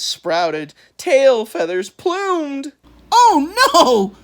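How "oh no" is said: high, loud duck-like cry; quacking panic. A narrator's reading. Eddie begs to go back, high quacking. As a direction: quack out the plea. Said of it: "Eddie quacked".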